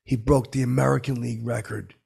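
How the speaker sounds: steamed. Retold or imitated. Retelling the steamed wife correcting him about the record, mildly angry. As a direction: imitate an indignant correction. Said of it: "she was steamed 'cause she goes".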